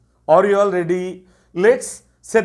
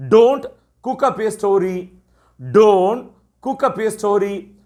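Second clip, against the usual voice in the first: slow teacher model phrase; 2 semitones higher, much slower than usual. Shown as a demonstration. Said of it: "எப்படி சொல்லலாம்?".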